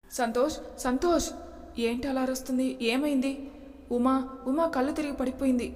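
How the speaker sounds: urgently calls Santosh after Uma collapses; alarmed call. Acted. Woman calls Santosh after Uma faints, alarmed.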